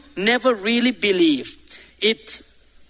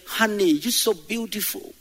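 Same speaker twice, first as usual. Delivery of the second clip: higher, gushing loving husband voice; husband sweet-talking his wife, higher and gushing; 4 semitones higher than usual. Retold or imitated. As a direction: lay the flattery on thick to your wife. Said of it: "you see your wife and you say".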